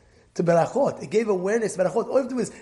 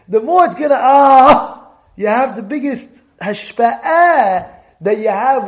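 fervent build; 4 semitones higher, 10 dB louder, slower than usual. Real, not acted. Building to the main point.

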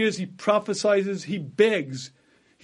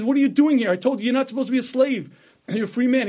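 higher, louder, startled demand; captain finds the prophet among slaves, startled and louder; shocked outburst; 4 semitones higher, 4 dB louder, much faster than usual. Acted. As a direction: burst out in disbelief at finding him. Captor finds Yirmiyah among slaves.

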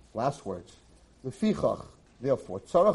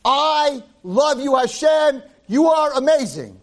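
high, slow call of love; mock call out to heaven; raised, slow, loving call; a mock yell; 9 semitones higher, 5 dB louder, slower than usual. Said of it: "yell to, in Shemayim".

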